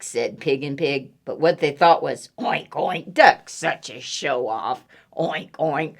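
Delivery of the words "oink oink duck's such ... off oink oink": low oinking pig voice; grumbling pigs. Acted. Pigs judge the show-off duck, low piggy grumble. Pigs' thought voiced in story.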